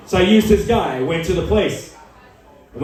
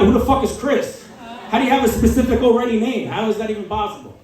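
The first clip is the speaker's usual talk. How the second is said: higher-pitched mock outrage; incredulous outburst; 4 semitones higher than usual. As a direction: demand an explanation in acted disbelief. Dad acts outraged at daughter.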